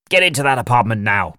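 loud, sharp command; barking order. A narrator's reading. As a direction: bark the order at the officers. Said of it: "barked Sampson".

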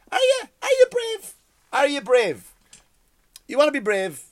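high loud scoffing challenge; mocking challenge. Real, not acted. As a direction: jeer it up high at them. Challenging mocked group.

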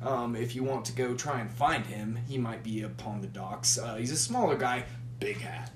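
lightly voiced Australian barkeep, friendly; casual Australian accent for the bar patron. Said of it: "You went from Scottish to Australian".

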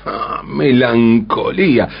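slow, dawning "Ah, melancolía"; sudden discovery. Retold or imitated. Singer's epiphany retold by the lecturer, slow dawning realization. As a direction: let the realization land slowly. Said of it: "Lo descubre".

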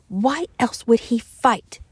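whispered angry question; breathy whispered challenge; hushed. Acted. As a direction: keep it down so nobody overhears. Fears Rachel might overhear.

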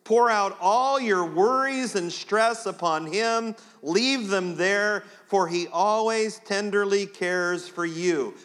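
the fresh version, read warmly; new wording, tender. Shown as a demonstration. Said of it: "you just heard it a new way".

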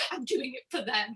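half-laughing, half-crying resolve; choked-up giggle of devotion; laughing through tears. Retold or imitated. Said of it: "I was like".

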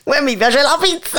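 Neapolitan bear with "Uè"; playful Neapolitan bear voice; Neapolitan dialect. Retold or imitated. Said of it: "torna napoletano".

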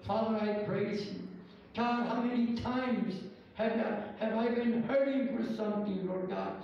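fervent pastor's prayer, rolling and steady. Acted. Pastor leading the church in prayer, fervent. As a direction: pray aloud over the congregation.

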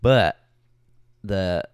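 put-on Southern storytelling; playful Southern US accent. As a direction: tell it with a Southern twang. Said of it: "tell the story in an accent".

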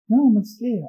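put-on high-pitched shocked girlfriend; indignant surprise. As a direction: play the girlfriend, taken aback.

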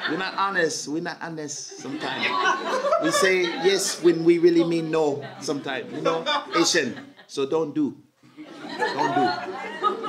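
lightly mock an Asian people-pleaser; Asian accent. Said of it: "Asian, Asian".

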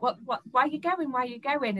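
a hint of the housemate nagging; badgering housemate. Housemate pressing her on why she leaves, lightly voiced nagging.

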